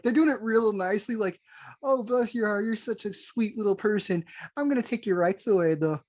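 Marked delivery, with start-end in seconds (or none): 1.8-6.0 mock sugary accent that isn't American, lightly done; faintly accented fake-polite voice; a put-on accent. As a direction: sweet-talk in a vaguely foreign accent, only a hint of it. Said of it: "I don't know why I went into that accent".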